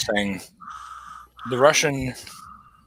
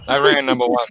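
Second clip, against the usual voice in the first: put-on Iron Sheik accent, "Iran number one" chanted higher; 13 semitones higher than usual. Host chanting the Iron Sheik catchphrase in his Iranian accent. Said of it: "saying in his accent".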